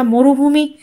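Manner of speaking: ordinary delivery, nothing marked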